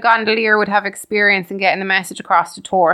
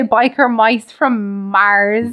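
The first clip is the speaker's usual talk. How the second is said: each word spelled out slowly; deliberate slow clarification; slow careful correction; much slower than usual. Shown as a demonstration. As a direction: say the title slowly so it lands. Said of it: "It sounded like you were saying Michael Myers".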